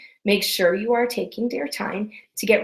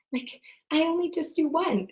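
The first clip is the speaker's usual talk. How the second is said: whisper; 7 semitones higher, 5 dB quieter than usual. Retold or imitated. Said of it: "my clients are like".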